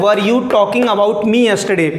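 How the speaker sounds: slow dictation pace, every word clear; slow model sentence. Shown as a demonstration. Teacher reading the board sentence to students, slowly. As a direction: read slowly and clearly for the class. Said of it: "क्या लिखा है मैंने यहाँ पे?".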